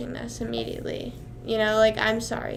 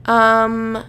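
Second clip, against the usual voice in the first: whispering. Pretend. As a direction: whisper close to the mic. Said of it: "so I have to whisper like this".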